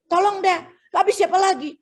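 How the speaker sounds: lightly acted insisting request; mock pleading. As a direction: press them, a little desperate. Insisting on the favor.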